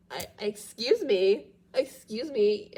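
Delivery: clearing a blocked nose; stuffy, interrupted by congestion; congested. Real, not acted. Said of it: "I'm a little congested".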